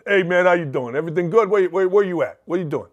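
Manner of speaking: casual Chicagoland-area accent greeting; Northwest Indiana accent. Shown as a demonstration. Local showing how Northwest Indiana talks, regional accent. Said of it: "That's how we talk".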